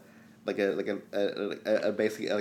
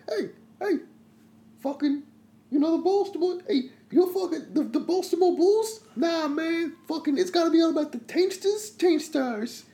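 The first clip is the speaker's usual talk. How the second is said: rowdy sports fan. Acted.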